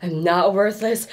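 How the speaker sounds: defiant declaration. Acted. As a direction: say it out loud, finding strength. Building to shouted affirmation.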